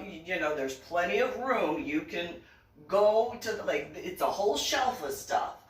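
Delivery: firm telling-off. Retold or imitated. Arguing with grandma over shelf.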